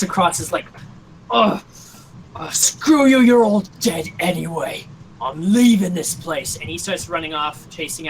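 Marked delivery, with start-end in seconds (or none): 1.3-6.6 freaking out. Acted. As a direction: lash out in panic while fleeing. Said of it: "he still seems to be freaking out".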